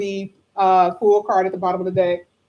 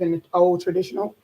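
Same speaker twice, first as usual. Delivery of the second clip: rough, worn-out voice; hoarse voice; 2 semitones lower, faster than usual. Real, not acted. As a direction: talk through a tired throat. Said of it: "I lose my voice on the weekends".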